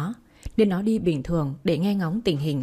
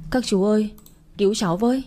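slightly raised pitch, urgent but contained; mock screaming plea; 2 semitones higher than usual. Girl begging passing men to save her, mock screaming plea. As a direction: plead for help without really shouting. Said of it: "Nó gào toáng lên".

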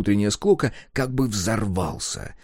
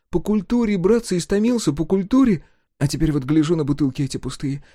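higher voice, longing for culture; pining lament; 7 semitones higher than usual. Acted.

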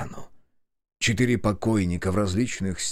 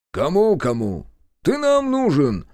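cross, gruff retort; angry grumble; 7 semitones higher, 4 dB louder than usual. Acted. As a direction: snap it back crossly. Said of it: "сердито буркнул Белкин".

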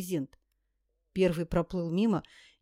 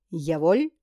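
jokey soldier salute; 2 semitones lower, 5 dB louder than usual. Acted. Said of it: "второй шутливо козырнул".

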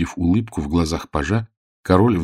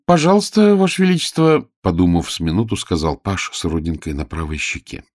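page riddle; 4 semitones higher than usual. Acted.

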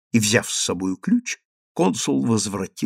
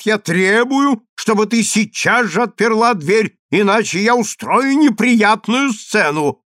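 angry demand; 8 semitones higher, 4 dB louder than usual. Acted. Consul demanding his wife open the door, angry. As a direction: insist hard, word by word.

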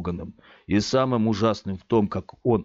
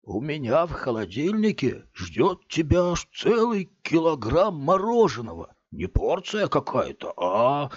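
higher, syrupy coaxing; sweet-voiced; 6 semitones higher than usual. A narrator's reading. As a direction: sweeten every word like bait. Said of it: "продолжал он сладким голосом".

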